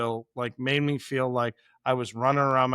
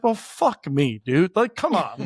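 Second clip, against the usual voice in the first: mock exasperated; 4 dB louder, slower than usual. Chef retells being overwhelmed mid-service.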